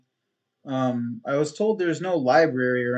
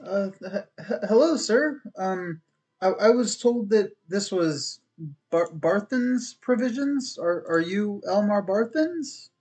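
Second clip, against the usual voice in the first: a touch higher, stammering and hesitant; shy traveller unsure of himself; a timid young adventurer greets the shopkeeper; nervous newcomer; 4 semitones higher than usual. Acted. Player voices timid newcomer.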